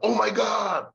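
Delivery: high, sudden gasp of surprise; mock shocked "Oh my God"; startled exclamation. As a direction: jump at it like you've just been startled. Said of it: "Kaget dia".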